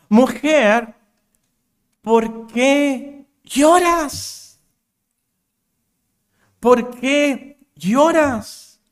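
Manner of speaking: slow, drawn-out, high-pitched tender appeal; stretched, pleading compassion with long pauses; compassionate question. Acted. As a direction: ask with great compassion, lingering on each word. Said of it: "le hizo esta pregunta con mucha compasión".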